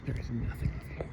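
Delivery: soft spooky whisper. Real, not acted. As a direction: hush it like something's listening. Spooky foggy night walk.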